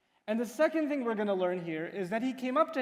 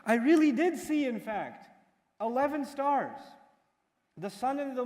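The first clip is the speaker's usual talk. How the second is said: put-on eager insisting child; 4 semitones higher than usual. Young Yusuf pleading with his father, excited. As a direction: beg him to believe you. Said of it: "And so he says".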